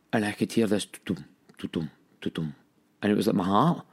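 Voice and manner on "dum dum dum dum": low, soft thudding dum-dum; hushed imitation of a heartbeat; imitated heartbeat. Man recalling his heart in bed, imitated heartbeat.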